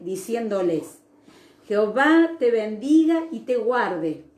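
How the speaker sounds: measured, emphatic Bible reading; scripture reading. Acted. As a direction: read the blessing out solemnly, phrase by phrase. Reads the priestly blessing from Numbers aloud.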